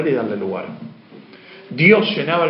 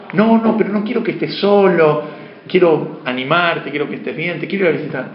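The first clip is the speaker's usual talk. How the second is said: pushy friend; 3 semitones higher than usual. Retold or imitated. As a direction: play the eager friend pressing to visit. Pushy friend in retold call.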